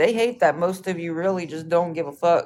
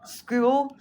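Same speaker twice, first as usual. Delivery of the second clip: School? pitched up higher with a stronger incredulous rise; higher mocking question; 7 semitones higher than usual. Real, not acted.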